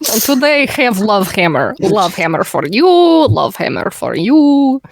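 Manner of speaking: light mock Russian accent, the last line slow; lightly hammed-up Russian salesman. Pitching the Love Hammer to the party in mock Russian. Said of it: "Today everybody's Russian".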